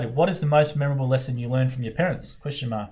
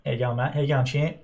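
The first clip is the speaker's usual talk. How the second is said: lightly imitated ocker Australian greeting; Aussie ocker accent. Host echoes the guest's ocker greeting, light Aussie ocker imitation. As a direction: echo an Aussie ocker hello. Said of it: "real Aussie Ocker accent".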